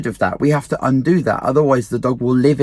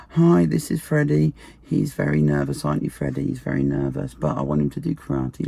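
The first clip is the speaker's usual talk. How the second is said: imitating a fussing parent; 7 dB quieter than usual. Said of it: "they bring their kids in and they go".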